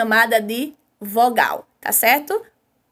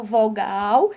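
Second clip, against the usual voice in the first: "vogal" drawn out and lower; stronger vowel sound; 4 semitones lower than usual. Shown as a demonstration. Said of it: "que é pronunciada mais forte".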